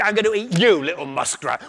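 tiger threat, loud at first; lightly voiced tiger, falling away. Tiger to the muskrat, lightly voiced threat. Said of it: "said the tiger".

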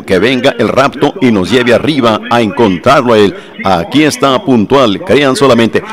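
loud, driving sermon delivery, every phrase pushed out; forceful preaching. Acted. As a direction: preach it out full force to the congregation. Loud preaching take of passage.

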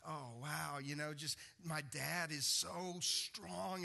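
slow, lightly voiced child in wonder; drawn-out admiring child voice; a hint of a little girl amazed by her dad; childlike awe.

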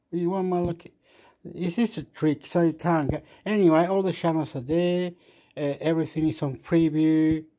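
exasperated rant. Real, not acted. Exasperated at phone app.

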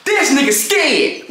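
high, drawn-out taunting movie quote; a rapper in Juice. Retold or imitated. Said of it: "what a rapper say in Juice".

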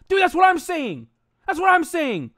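excited. Real, not acted. Hyped exclamation.

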